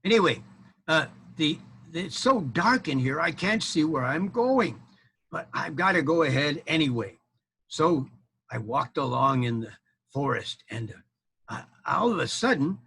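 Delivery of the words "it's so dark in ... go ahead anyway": knight groping in the dark. Acted. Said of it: "I'll pretend I'm him".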